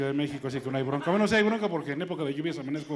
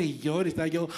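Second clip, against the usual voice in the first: put-on baby crying. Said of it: "Así lloraba yo de niño".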